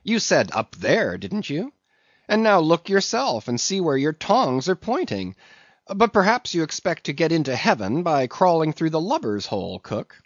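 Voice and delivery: high, emphatic lecturing; needling mate. A narrator's reading. Mate lecturing the cook on heaven, needling. Voices Stubb.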